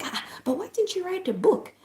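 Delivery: high, lilting plea; imitated high-pitched wondering; retold curious question. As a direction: ask it with lifted, puzzled curiosity. Retold question to old man.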